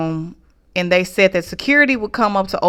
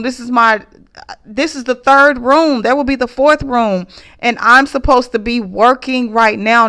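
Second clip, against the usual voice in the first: pitched higher, choked-up pleading; a retold, mildly tearful protest; upset, near tears; 5 semitones higher than usual. Telling the front desk sister she won't move again, upset and higher. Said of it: "I'm in tears".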